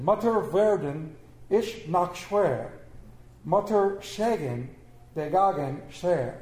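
careful, slow German read; German quote. Shown as a demonstration. Preacher tries the German quote for the congregation, slow and careful. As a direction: read the German line slowly and deliberately. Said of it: "I'm not gonna try the German, although I rehearsed it".

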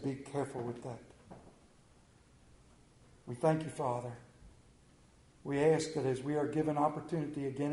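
earnest prayer voice, softening near the end; closing prayer. Acted. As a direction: lead the congregation in prayer. Pastor leads closing prayer.

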